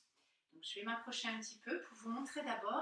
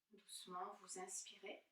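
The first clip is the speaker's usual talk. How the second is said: guided meditation; 3 dB louder than usual. Acted. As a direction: gently guide them inward, leaving space between phrases.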